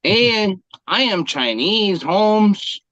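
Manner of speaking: badly faked sing-song Chinese accent; hammed-up, inaccurate Chinese accent; fake Chinese accent. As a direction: attempt a Chinese accent and muddle it. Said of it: "Chinese accent?".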